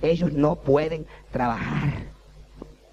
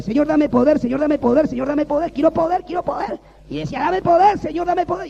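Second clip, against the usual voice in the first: pleading prayer; 12 semitones higher, 6 dB louder than usual. Retold or imitated. Retold pleading prayer for power.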